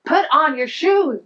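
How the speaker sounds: exasperated parent repeating an order; stern repeated order. Retold or imitated. Repeated, sterner command to son.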